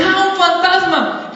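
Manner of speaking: a touch of pretend alarm; mild mock scream. Preacher retelling the disciples' cry at the ghost, mild mock scream. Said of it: "dice la Biblia que estaban gritando".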